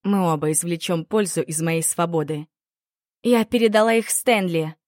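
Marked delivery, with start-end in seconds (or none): 3.2-4.8 rattling off. Acted. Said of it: "затараторила я".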